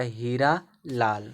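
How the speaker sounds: हीरा लाल with a long ee in हीरा; long vowel sound. Shown as a demonstration. Teacher showing why double e is used, long ee in हीरा लाल. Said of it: "long sound दे रहा है".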